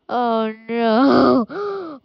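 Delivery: a touch of fake sobbing; mock crying. Gamer regretting arresting his friend, mock sob.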